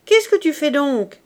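high, loud impatient question; shouting. A narrator's reading. Father hurries his dawdling daughter, shouting. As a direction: demand it at a shout. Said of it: "cria le père".

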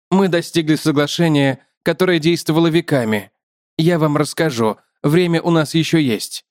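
slightly lifted spider character voice; lightly voiced explaining spider; talkative spider. Spider tells the man of an agreement, lightly lifted voice.

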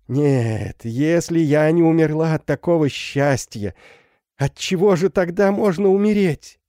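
overflowing with happiness; ecstatic mother. Acted. Mother's ecstatic reunion speech. (ликующая мать, всё выше и громче)

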